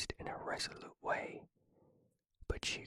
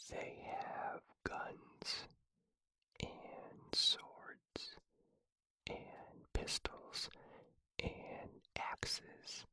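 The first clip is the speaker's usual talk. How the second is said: drawn-out list; 4 dB quieter, much slower than usual. Pretend. Feigned count of police weapons.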